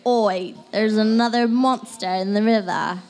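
a lightly put-on British accent, a bit slow; mock British TV monster hunter, lightly done. Imitating the River Monsters host in a light British accent. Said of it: "Did you like my British accent?".

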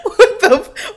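loud, high burst breaking into laughter; explode, then crack up; laughing outrage. Retold or imitated. Retells outburst once cop walks away.

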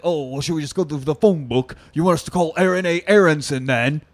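snarky, quick sarcastic reply. Retold or imitated. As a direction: roll your eyes while saying it.

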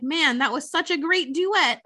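lightly hyped retold praise; retold excitement. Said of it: "everyone's super excited".

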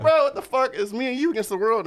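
pleading with the friend who told, high and loud; mock outraged disbelief. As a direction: squeal it like a betrayed buddy. Retold betrayed plea to friend.

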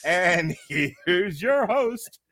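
slow showman host intro; announcer intro. Pretend. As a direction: build it up to the name.

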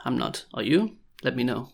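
ordinary delivery

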